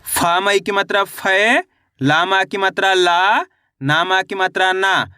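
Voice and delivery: sing-song spelling that settles on "ना"; spelling-out demonstration. Shown as a demonstration. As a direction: stretch "फै", "ला" and "ना" as syllables being built. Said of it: "एक बार फिर से देखिए".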